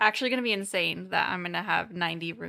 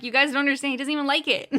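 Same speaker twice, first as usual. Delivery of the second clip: louder, higher mock exasperation; exasperated retold protest; 5 semitones higher, 4 dB louder, faster than usual. Telling old coworkers he doesn't like sports, mock exasperated. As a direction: protest as if nobody gets it, half laughing.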